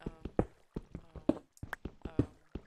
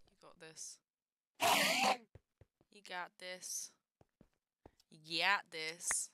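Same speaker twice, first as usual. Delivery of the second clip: self pep talk; slower than usual. Real, not acted. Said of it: "hype myself up".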